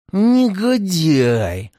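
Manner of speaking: медленно, сквозь зубы; процеди слово через зубы; скрежеща. A narrator's reading. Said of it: "скрежетал он". (скрежещущее «Негодяй»)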